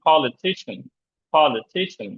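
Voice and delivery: "politician" with main stress on ti. Shown as a demonstration. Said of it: "এই থিসে আমাদের stress দিতে হবে".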